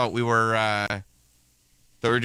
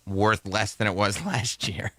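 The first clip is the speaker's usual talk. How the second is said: laughing; slower than usual. Real, not acted. Laughing at crypto loss.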